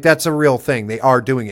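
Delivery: ordinary talk, nothing marked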